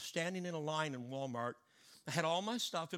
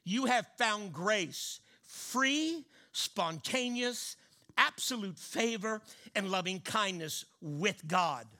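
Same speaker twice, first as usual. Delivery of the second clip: louder, slowed, preached declaration; declaring it; 2 semitones higher, 4 dB louder, much slower than usual. Acted. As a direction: proclaim it over the crowd with full force. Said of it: "Now let me declare this over you".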